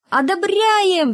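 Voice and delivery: very high, drawn-out cry of approval; long, high collective cheer; class cheering. A narrator's reading. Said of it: "вскричал класс".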